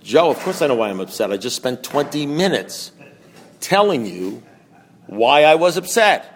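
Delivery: exasperated retort, slowing down to spell it out; retold exasperation. Fed-up man answering his sponsor, exasperated.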